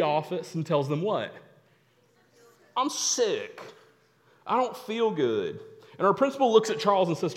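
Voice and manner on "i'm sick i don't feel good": fake sick voice. Faking sickness at the office.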